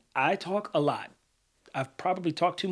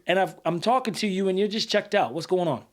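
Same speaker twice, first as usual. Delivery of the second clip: raised, pressing demand; angry confrontation; 3 semitones higher than usual. Retold or imitated. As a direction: push like a frustrated friend. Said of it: "let's say I don't have good E Q".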